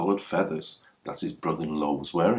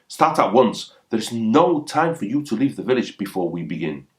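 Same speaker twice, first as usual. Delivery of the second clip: higher, louder, commanding rival; angry command; 4 semitones higher, 4 dB louder than usual. Acted. Furious brother-in-law orders Watiakuri to start, in an angry, raised voice. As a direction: bark the order at him.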